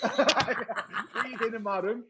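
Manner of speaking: high, slow, laughing quote. Retold or imitated. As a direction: laugh through the line. Re-quoting Ravanelli laughing.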